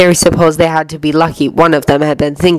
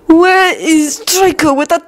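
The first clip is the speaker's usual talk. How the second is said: slow, higher, strained annoyance; annoyed hiss; 11 semitones higher, slower than usual. A narrator's reading. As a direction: hiss it slowly, worry underneath. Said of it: "Lucius hissed".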